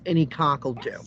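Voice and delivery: a hint of a sultry prostitute; punchline. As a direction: drop it low and sly like a prostitute. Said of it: "a prostitute says".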